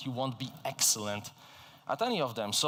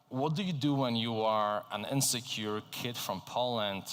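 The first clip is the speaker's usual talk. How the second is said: usual speaking voice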